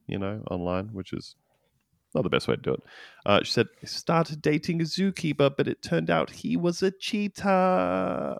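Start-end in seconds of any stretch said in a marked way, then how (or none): 3.8-8.4 sheepish, higher and softer, slowing down; apologetic delivery. Retold or imitated. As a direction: say it as if you're sorry for the joke. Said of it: "Like, saying it like it's a shitty joke".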